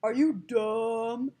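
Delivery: "Are you dumb?" with vowels stretched very slowly; drawn-out vowels. Retold or imitated. Teacher imitating the comedian's vowel trick, "Are you dumb?" dragged out. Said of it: "doing that thing with the vowels".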